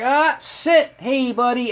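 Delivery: high, quick command into greeting; high-pitched demo of talking to a dog. Shown as a demonstration. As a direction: cut in sharply, then greet the dog.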